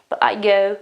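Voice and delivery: "But" without its t, running into "I go"; unpronounced T. Shown as a demonstration. Teacher showing her own habit, "But" with the T left out. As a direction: drop the t at the end of "But". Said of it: "I don't pronounce the T".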